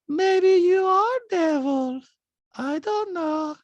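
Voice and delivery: high, slow horror-trailer intoning; eerie, drawn-out mock villain. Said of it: "everything she's like".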